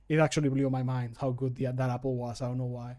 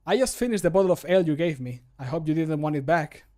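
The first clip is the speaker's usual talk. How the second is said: brisk, cheeky and a bit louder; character voice line; 6 dB louder than usual. Acted. Character teasing the player about drinking their ale, cheeky brisk voice. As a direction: tease them about the empty bottle. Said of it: "my character will say this voice line".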